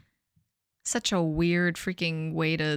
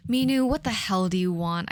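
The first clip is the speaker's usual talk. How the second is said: dull. Acted. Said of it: "I said dully".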